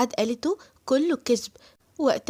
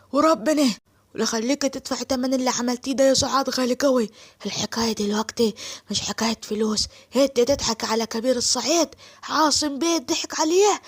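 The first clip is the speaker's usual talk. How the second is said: 1 enraged Saidi man. Acted. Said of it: "وطلعت نار الصعيدي".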